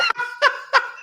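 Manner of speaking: very high laugh while retelling; high-pitched laugh. Retold or imitated. Actor reacting to being taken for cop, high laugh.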